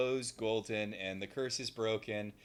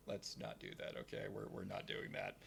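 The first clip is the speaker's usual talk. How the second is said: hushed Leo; 2 semitones lower, 12 dB quieter than usual. Retold or imitated. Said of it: "And Leo's like".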